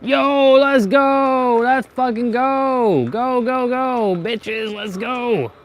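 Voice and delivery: hyped, high, loud bro cheer; frat bro. Real, not acted. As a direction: scream it like your team won. Hyped celebration after escape.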